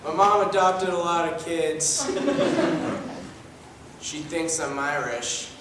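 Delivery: deadpan son. Acted. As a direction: mumble it dryly. Plays a deadpan adopted son.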